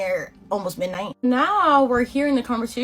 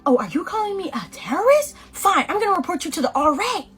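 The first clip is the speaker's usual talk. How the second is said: huffy; 7 semitones higher than usual. Retold or imitated. Ellen huffy, voiced higher.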